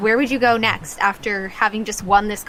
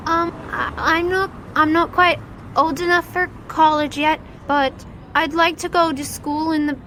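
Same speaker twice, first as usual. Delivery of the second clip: put-on sad child; 4 semitones higher than usual. Child tells of his poverty.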